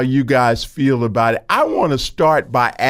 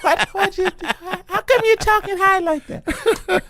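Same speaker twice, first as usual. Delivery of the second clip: much higher, put-on mocking voice; mocking white guy. Host imitates white guys asking about his voice, high mocking voice. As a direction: mimic someone puzzled by a high voice. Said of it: "white boys ask you that".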